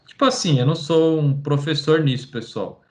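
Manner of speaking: usual speaking voice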